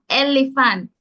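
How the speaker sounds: ELEPHANT said elifen, t dropped; Jamaican pronunciation. Shown as a demonstration. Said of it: "That's your pronunciation".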